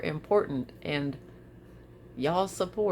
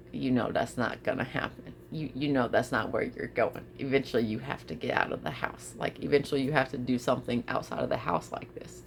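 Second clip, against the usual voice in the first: gentle voice; 6 semitones lower, 4 dB quieter than usual. Retold or imitated. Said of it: "held my hand very, very gently".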